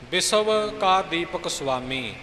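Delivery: ਬਿਸਵ ending in a clear v, ਸੁਆਮੀ with a half ਸੁ; v sound in ਬਿਸਵ. Shown as a demonstration. Teacher shows ਬਿਸਵ with v and a half ਸੁ in ਸੁਆਮੀ. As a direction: say the ਵ in ਬਿਸਵ as v, not as a. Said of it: "ਇਸ ਵੱਵੇ ਦਾ ਉਚਾਰਨ ਵੱਵੇ ਦੇ ਰੂਪ".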